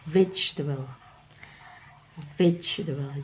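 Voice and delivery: vegetable said as vej-tuh-bel with the middle e dropped; vegetable, three syllables. Shown as a demonstration. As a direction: drop the e in vegetable. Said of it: "dihilangkan huruf E".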